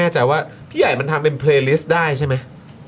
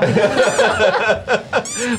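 high burst of laughter; 8 semitones higher than usual. Real, not acted. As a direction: laugh hard. Laughing after clip. (หัวเราะเสียงดัง)

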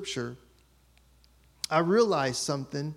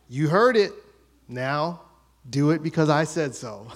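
mock-parental, a bit louder; bossy authority; 5 dB louder than usual. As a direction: lay down the law like a little dad. Older brother acting like dad.

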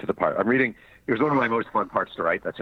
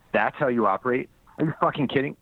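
higher, incredulous anger; angry; 5 semitones higher than usual. Retold or imitated. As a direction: snap it at him. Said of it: "he growled".

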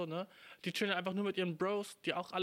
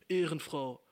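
"Ehrenfrau" said again, a bit louder and flat; repeated slang, louder; 4 dB louder, slower than usual. Retold or imitated. Little sister repeating the word to her shocked sibling. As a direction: repeat "Ehrenfrau" plainly, unbothered. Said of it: "Sie so".

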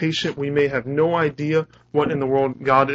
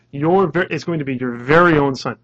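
louder, with "very" punched; very clear, emphatic; 5 dB louder than usual. Retold or imitated. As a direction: drive home "very own son". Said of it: "he's very clear".

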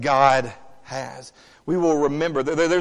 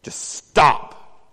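tired Jesus; 4 dB louder than usual. Retold or imitated. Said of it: "Jesus steps up and goes".

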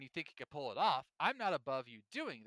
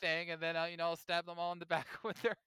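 higher, louder sly schemer voice; playful Claude imitation, higher and loud; mock Claude; 6 semitones higher, 8 dB louder than usual. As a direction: ham up a carefree schemer letting slip his plans. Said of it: "He's like".

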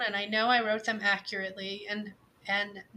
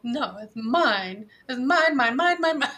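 possessive whining; 4 dB louder than usual. Retold or imitated. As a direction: whine it like a possessive child. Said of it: "how you tell your five-year-old".

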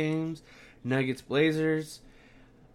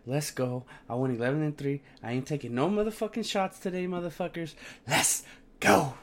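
frat bro; 3 semitones higher than usual. Real, not acted. Hyping his winning picks.

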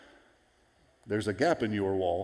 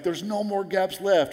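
higher-pitched, lightly acted excitement; excited; 7 semitones higher than usual. Preacher acting out Nehemiah over the finished wall, excited. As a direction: report it like a man thrilled with his work. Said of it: "he's all excited".

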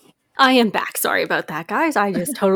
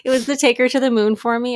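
choked up; 5 semitones higher, 6 dB louder than usual. Real, not acted. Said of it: "I can't even say it".

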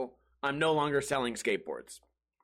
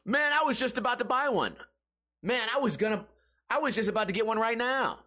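higher-pitched, whiny mock protest; mocking commenters; 7 semitones higher than usual. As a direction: mimic their lame excuses in a raised voice. Mimics commenters' excuses.

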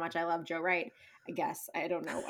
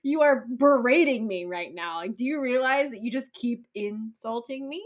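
incredulous and fed up; mock outrage; 3 semitones higher, 4 dB louder than usual. Imitating Lizzie rebuking Darcy, mock outrage fading. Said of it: "until she's like".

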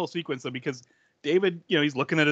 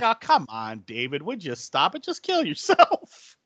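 nonchalant; 3 semitones higher than usual. Retold or imitated. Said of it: "He's so nonchalant about it".

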